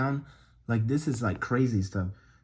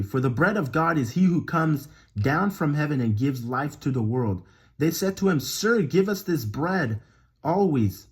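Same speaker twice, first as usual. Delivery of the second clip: scripture reading; 2 semitones higher, 3 dB louder than usual. Acted. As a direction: read the verse out with deliberate weight. Reads scripture aloud.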